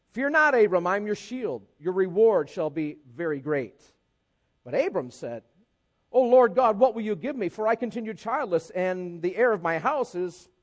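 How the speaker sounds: reading the verses aloud, measured; scripture reading. Acted. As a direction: read the Bible passage to the church.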